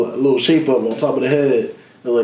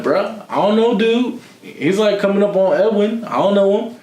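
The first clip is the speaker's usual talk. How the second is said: panicked reply; 7 semitones higher than usual. Retold or imitated. Retelling his own panicked reply.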